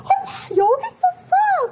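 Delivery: very high, drawn-out imitated child wail; crying children. Children find mother in the closet, imitated wail. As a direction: mimic a tearful kid who has found mom. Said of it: "애들이 막 울어요".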